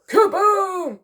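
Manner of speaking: high, loud drawn-out kaboom; explosive boom. A narrator's reading. Reader sounding the exploding barrel, explosive. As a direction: burst it out like an explosion.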